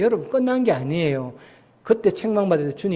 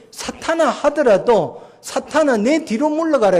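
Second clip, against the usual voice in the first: much higher, ringing rebuke of Satan; sharp rebuke; 8 semitones higher, 4 dB louder than usual. Retold or imitated. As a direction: cry out the Lord's rebuke. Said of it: "주님이 책망했다고".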